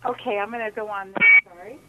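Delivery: faint and fading out; barely audible. Real, not acted. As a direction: voice dropping off the line. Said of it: "you sound very faint".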